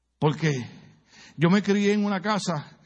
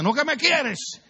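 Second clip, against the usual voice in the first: much higher, slow mock innocent plea; son's retort; 9 semitones higher, slower than usual. Pastor as a boy asking his mother if she loves him, higher. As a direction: play the cheeky son. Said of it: "Y le decía".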